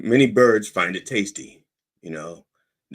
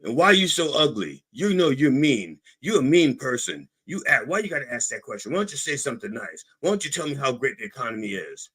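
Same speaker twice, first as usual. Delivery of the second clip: whiny Trump; 4 semitones higher than usual. Retold or imitated. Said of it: "And then he says".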